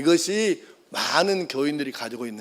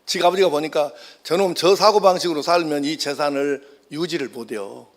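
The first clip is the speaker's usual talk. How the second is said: nagging father; 3 semitones lower than usual. Retold or imitated. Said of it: "잔소리를 안 할 수가 없는 거예요".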